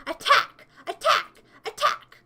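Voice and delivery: playful shouted attack; mock battle cry. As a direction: scream the order rising.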